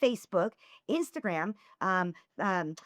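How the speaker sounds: exasperated lecture, pitch climbing through the list; retold mad rant. Woman listing her message workload to a fan, retold as mad. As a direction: pile up the chores in mock telling-off. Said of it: "I was so mad".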